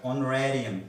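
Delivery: ऑनरेरियम started on the vowel; no H at the front of ऑनरेरियम; silent H. Shown as a demonstration. Teacher gives an example, ऑनरेरियम with its H silent. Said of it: "एच silent रहेगा".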